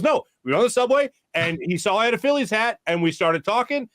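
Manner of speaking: lightly voiced excited buddy. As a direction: retell a friend's breathless story. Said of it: "And he goes".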